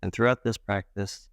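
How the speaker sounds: calm meditation guide with long pauses between phrases; guided meditation. Acted. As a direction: gently guide them into breath awareness, leaving space. Leads a guided breath meditation.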